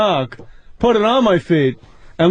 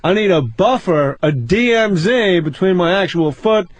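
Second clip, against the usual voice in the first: Seinfeld impression; 2 semitones lower than usual. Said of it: "What's the deal?".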